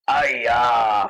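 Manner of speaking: mock Chinese-accented cry, stretched out; lightly caricatured Chinese exclamation; stereotype exclamation. Mocking the dragon as stock caricature, mock Chinese accent. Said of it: "sound like the kind of character who would just go".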